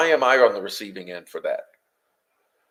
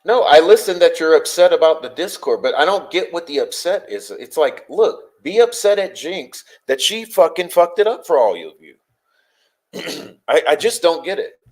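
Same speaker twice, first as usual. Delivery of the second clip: heated, raised voice arguing back; exasperated; 4 semitones higher, 3 dB louder than usual. Real, not acted. Streamer defending themself to upset viewers in chat, exasperated. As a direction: argue it louder and higher, fed up.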